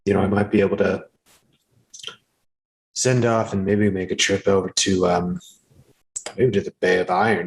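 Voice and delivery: a hint of a low, relaxed orc woman talking harvest; orc woman chatting. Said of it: "say to the gnome pretty quietly".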